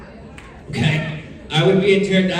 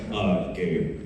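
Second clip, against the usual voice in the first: Gabe impression; 9 semitones lower, 6 dB quieter than usual. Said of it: "That's my Gabe impression".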